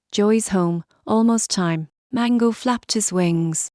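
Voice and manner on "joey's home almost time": strained, rasping and out of breath; raspy voice. Acted. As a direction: rasp it out with a sore throat. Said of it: "I rasped, out of breath".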